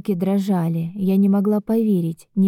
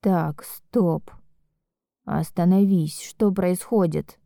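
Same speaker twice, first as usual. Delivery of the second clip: serious; slower than usual. Acted. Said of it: "Его голос стал серьёзным".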